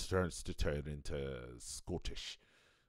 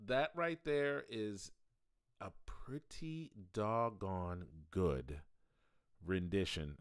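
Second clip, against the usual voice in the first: slow drawl; slower than usual. Shown as a demonstration. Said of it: "A pretty good doggone rendition".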